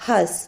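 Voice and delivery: ഹസ് with no m or n before the s; silent nasal. Shown as a demonstration. Teacher showing the silent anunasik, ഹസ് without nasal. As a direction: go straight from the vowel to s in ഹസ്. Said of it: "അവിടെ അന്നാസിക് silent ആണ്".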